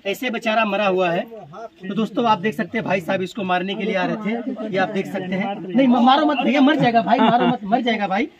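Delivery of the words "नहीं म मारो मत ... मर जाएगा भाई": urgent plea. Real, not acted. Pleading as man goes for snake.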